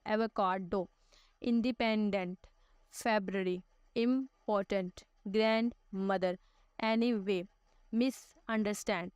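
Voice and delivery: each word broken into syllables with small pauses; split into syllables. Shown as a demonstration. Teacher to class, sounding out syllables. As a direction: chop each word into its parts. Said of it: "ऐसे हम लफ्ज़ों को half half करके बोलते हैं".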